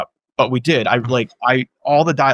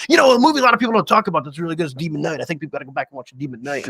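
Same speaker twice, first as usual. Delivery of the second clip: mock earnest actor; 4 semitones higher, faster than usual. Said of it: "he's like".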